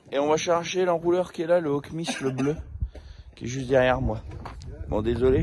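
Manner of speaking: brosse à dents dans la bouche; en se brossant les dents. Real, not acted. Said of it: "je me lave les dents". (en se brossant les dents)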